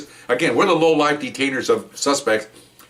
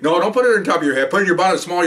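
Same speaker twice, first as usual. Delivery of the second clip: firm orders; 7 semitones higher, 3 dB louder than usual. Retold or imitated. Officer barking orders at suspect.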